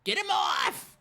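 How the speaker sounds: loud high yell to get it off; shout. Acted. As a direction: bellow in disgust. Pinned, demanding body be removed.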